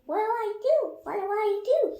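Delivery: high squeaky fretting; a squeaky worried deputy; lightly squeaked worry; squeaky panic. A narrator's reading. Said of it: "he squeaked".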